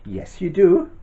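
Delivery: put-on teasing the kids, bright and lively; a playful yes you do. Teasing the children.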